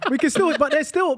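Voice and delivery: talking through laughter; laughing. Real, not acted. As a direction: still laughing at the joke. Laughing at the joke.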